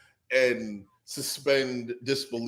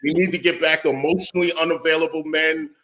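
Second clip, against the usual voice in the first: louder, a hammed-up rally speech; mock rallying cry; 6 dB louder, faster than usual. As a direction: preach it like a campaign stump, half joking.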